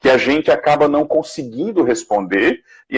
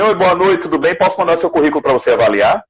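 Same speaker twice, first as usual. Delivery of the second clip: lightly mimicked eager asker, pitched higher; higher-pitched mock message, rattling off the request; imitated pushy stranger; 6 semitones higher, faster than usual. Imitating people who ask for résumé reviews, lightly pushy.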